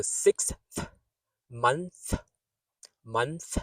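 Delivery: "sixth" and "month" singly, th released clearly at the end; exaggerated final TH. Shown as a demonstration. Teacher drilling word-end TH, exaggerated articulation. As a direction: finish each word on an audible th. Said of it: "That's how you would say it when it's exaggerated".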